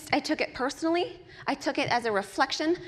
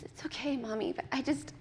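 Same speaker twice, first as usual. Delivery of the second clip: put-on hurt little boy; 9 dB quieter than usual. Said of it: "And he says".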